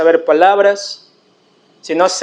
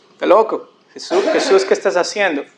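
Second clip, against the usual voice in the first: mocking with a laugh; 2 semitones lower than usual. Crowd mocks Jesus.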